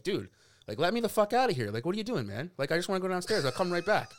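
worked-up retelling of an indignant demand; retold upset protest. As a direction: re-enact being upset at getting held back. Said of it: "allowed myself to get really upset".

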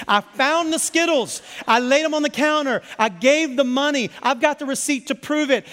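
hammed-up dad listing everything he did for the candy; mock parent rant. Dad ranting at kids over Skittles, mock exasperated. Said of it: "I wanna lose my ever-loving mind over a bag of Skittles and be like".

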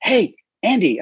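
1 friend calling out. Retold or imitated. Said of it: "my friend Joe's like".

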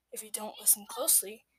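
hushed unvoiced warning; whisper. A narrator's reading. Storyteller warns the foxes, in a whisper. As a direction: breathe it like a secret threat.

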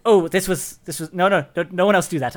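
embarrassed gushing apology; flustered. Acted. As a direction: caught out, rushing to explain. Character flustered after smashing glass.

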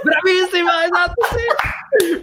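high, laughing praise; laughing delight. Real, not acted. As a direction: cheer through laughter. Delighted at wig answer.

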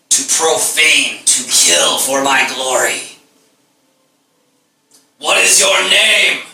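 booming god voice. Acted. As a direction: boom it out like a god. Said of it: "this voice booms out".

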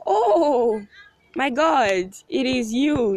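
high, loud gasp of recognition; 思わず声が裏返る「Oh my God」、興奮して高く大きく; excited. Retold or imitated. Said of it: "I was just like".

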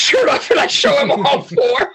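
real laughter breaking through the words; laughing. Real, not acted. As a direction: laugh out the punchline. Laughs telling the LeBron story.

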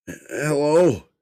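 high, loud panicked call into the dark; frightened call. Acted. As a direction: call out, terrified and blind. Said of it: "he croaked out".

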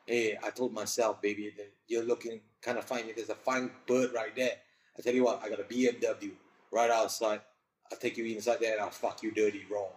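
mock Northern Geordie accent. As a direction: ham up a Geordie chat-up line. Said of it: "that Northern Geordie accent".

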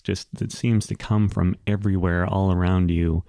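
ordinary talk, nothing marked

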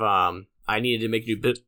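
talking through hiccups; words broken by a hiccup. Real, not acted. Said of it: "why am I hiccuping now?".

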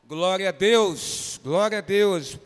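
slow, loud praise; praising loudly. Real, not acted. Pastor praising God after Davi's answer, loud and slow. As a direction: exclaim it in joyful thanks.

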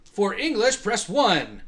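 high, loud automated prompt; phone menu voice. Retold or imitated. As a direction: read it like a recorded phone menu. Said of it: "it would say".

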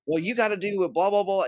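high mock voice of a pushy salesman droning on. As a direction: parody him as a nagging, dismissive seller, pitched high. Mocking the pushy salesman's rant.

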